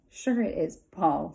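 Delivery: "Sure" hit first, then falling away; stress on sure. Acted. Pigtail coaxing Paul, stress on "Sure". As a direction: lean on "Sure" and let the rest drop. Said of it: "Or said".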